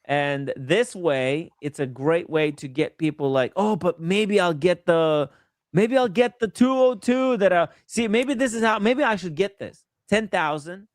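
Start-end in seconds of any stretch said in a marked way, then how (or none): 3.6-10.9 high, dreamy hopeful gambler; tempted buyer voice. Retold or imitated. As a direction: muse like a buyer chasing a jackpot. Voicing a tempted buyer's thoughts.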